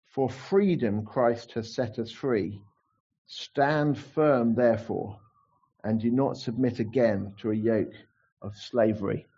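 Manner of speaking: slow, solemn verse reading; scripture reading. Acted. Preacher reading the key verse to the church, slow and solemn. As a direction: read it slowly, weighing each word.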